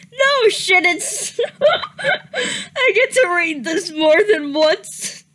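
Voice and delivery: loud no shit dissolving into giggles; can't believe it comes up again; laughing again. Real, not acted. Hits the line again, laughs.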